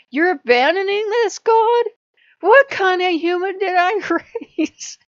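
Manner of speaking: a furious god yelling, breaking into laughter at the end; building retold yell. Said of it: "And yelling at me for five minutes straight".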